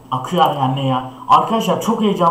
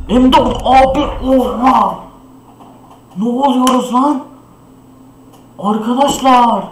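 high, loud, drawn-out cheer; excited shout; 5 semitones higher, 4 dB louder, slower than usual. Real, not acted. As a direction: yell with surprised joy. Another M4A1 drops.

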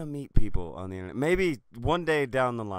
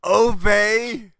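loud, higher mock Jewish accent; 8 semitones higher, 9 dB louder than usual. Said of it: "That's my Jewish accent".

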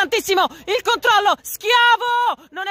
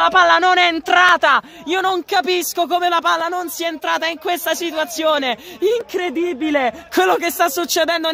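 high, urgent goal call; frantic near-miss commentary; breathless italian goal commentary; 5 semitones higher than usual. Real, not acted. Excited live play-by-play climax.

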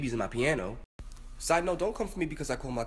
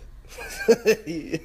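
high, louder burst of giggles; helpless laugh; 4 semitones higher, 4 dB louder than usual. Real, not acted. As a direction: laugh helplessly at a crazy situation. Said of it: "I could only laugh".

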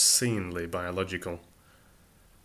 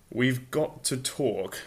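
urgent; 3 semitones higher, much slower than usual. Acted. Ford crouching beside Arthur, urgent and slow. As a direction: lean in, it can't wait. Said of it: "he said urgently".

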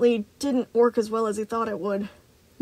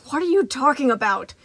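shouted; 3 semitones higher, 4 dB louder than usual. Acted. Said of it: "Moon shouted".

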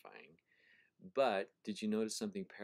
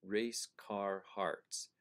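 slow, sound-savoring read; much slower than usual. Shown as a demonstration. Teacher to class, reading the phrase out very slowly. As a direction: Race car hearts drawn out very slowly, each word apart. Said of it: "listen to this in terms of sound".

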